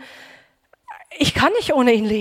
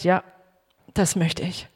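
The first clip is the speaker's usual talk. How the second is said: quiet voice; 5 semitones lower, 5 dB quieter than usual. Retold or imitated. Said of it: "diese leise Stimme".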